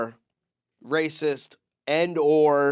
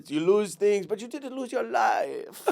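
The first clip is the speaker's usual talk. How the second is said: wise driver; 6 semitones higher than usual. Retold or imitated. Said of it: "words of wisdom".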